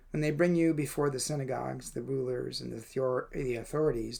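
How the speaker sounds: earnest Bible reading aloud; scripture reading. Acted. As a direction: read the verses like a lector. Reads scripture passage aloud.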